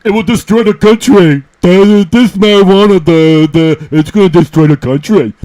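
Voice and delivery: mocking commissioner. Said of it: "That was commie talk".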